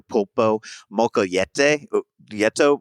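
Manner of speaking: stumbling over the Spanish dish name "pulpo mocoyete"; "mocoyete" said haltingly, then trailing into "yeto"; mangled Spanish name. Real, not acted. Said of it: "my pronunciations are horrible".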